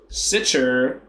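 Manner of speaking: German read as Texan, "sicher" with English ch; Texas accent. Shown as a demonstration. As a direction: say it like an all-American Texan. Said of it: "I'll put, like, a Texas accent on".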